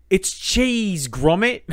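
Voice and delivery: high, exclaiming cartoon catchphrase; Wallace impression. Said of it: "we're just constantly going like".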